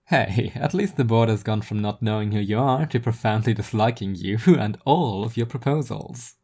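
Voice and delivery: friendly teasing with a laugh in it; lightly voiced Seth. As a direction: rib your friend about being disliked. Seth teases Rhea.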